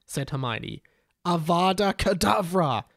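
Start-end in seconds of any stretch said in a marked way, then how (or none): 1.2-2.8 Avada Kedavra called out louder; a mild mock shout of the curse; shouted spell. Derek kills the chicken with a mildly louder shouted spell. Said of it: "shouted Derek".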